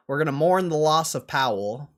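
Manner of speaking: loud mock mourning.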